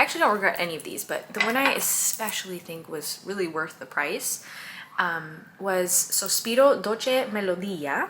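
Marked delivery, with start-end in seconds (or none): 5.9-8.1 slow, careful Italian-style pronunciation; attempted Italian accent. Shown as a demonstration. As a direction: say it slowly, trying to sound Italian. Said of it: "I'm trying to be Italian with it".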